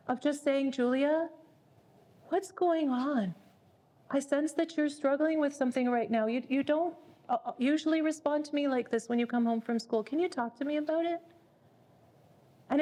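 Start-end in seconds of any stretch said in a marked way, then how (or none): 0.7-11.2 gentle, steady mom inviting her to talk; mother calmly asking her upset daughter what's wrong. Shown as a demonstration. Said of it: "speak in a calm voice".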